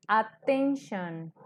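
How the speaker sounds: "attention" lento, at-ten-shon; pronunciación pausada. Shown as a demonstration. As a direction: alarga las tres sílabas de "attention". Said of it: "al pronunciarlo decimos". ("attention" marcado despacio, sílaba por sílaba)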